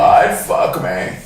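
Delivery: slow breathy whispered creep line; Buffalo Bill whisper. Retold or imitated. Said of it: "I was close".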